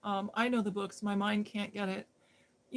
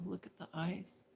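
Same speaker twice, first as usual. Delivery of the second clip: P=A; hushed; 2 semitones lower, 10 dB quieter than usual. Retold or imitated. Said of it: "And I go".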